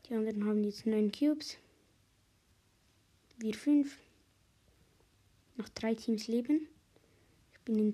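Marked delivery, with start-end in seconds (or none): 3.4-4.0 whispering. Real, not acted. Quiet aside while playing.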